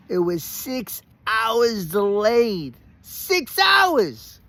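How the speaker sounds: slow, rising to a high laughing shout; laughing exclamation. Real, not acted. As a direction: laugh out the disbelief. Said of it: "See how I'm laughing now?".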